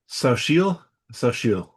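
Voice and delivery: Sauchiel in two syllables, first tentative, then settled; SOH-cheel pronunciation. Shown as a demonstration. Host sounds out the actress's name, Sauchiel tried then confirmed. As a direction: try Sauchiel as a question, then state it. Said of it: "How that's pr-, pronounced".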